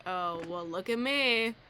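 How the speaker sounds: loud, scornful inner voice; mocking self-critic. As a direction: jeer at yourself like a bully. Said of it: "'Cause then I'm like".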